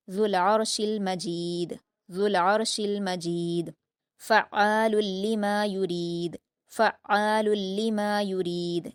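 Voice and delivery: slow, melodic Quran recitation; tajweed recitation. Shown as a demonstration. Teacher reciting the verse for the student. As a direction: chant the verse with elongation.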